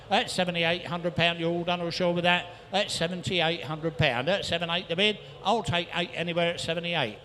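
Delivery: rhythmic rapid-fire bid calling; auctioneer calling. Real, not acted. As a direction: rattle off the bids like an auctioneer. Auctioneer taking bids.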